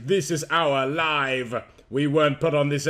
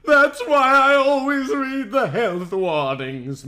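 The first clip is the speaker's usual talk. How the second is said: higher, slow, tearful cry; worried girl crying out, high and slow; 9 semitones higher, 4 dB louder, slower than usual. Acted. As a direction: plead through rising tears. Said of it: "Minna cried".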